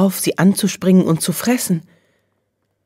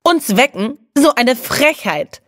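high, slow outraged squeak; indignant; 8 semitones higher, slower than usual. A narrator's reading. Clary joining her cousins' protest, outraged and high. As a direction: pile on the outrage, much higher. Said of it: "legte Clary nach".

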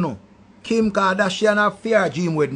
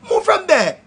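laughing dismissal; 9 semitones higher than usual. Real, not acted. Scoffing at the imagined donor.

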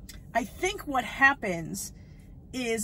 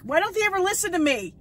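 exasperated outburst; 8 semitones higher, 5 dB louder, faster than usual. Real, not acted. Exasperated fan complains to viewers.

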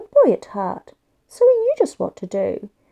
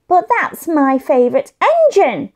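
yelled; 4 semitones higher, 4 dB louder than usual. Acted. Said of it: "Josh yelled".

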